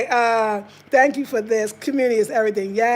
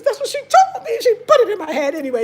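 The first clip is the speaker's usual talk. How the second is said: laughing; 9 semitones higher, 7 dB louder, faster than usual. Real, not acted. Laughs while recalling the blowout.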